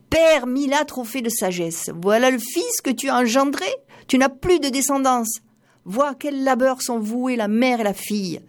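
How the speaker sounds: cri désespéré. A narrator's reading. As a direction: wail it out to the father's memory, pitched high. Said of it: "et elle s'écria". (cri de désespoir de la mère, aigu et fort)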